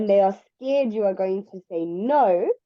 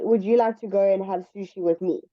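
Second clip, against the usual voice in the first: direct invitation; faster than usual. Shown as a demonstration. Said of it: "I would say".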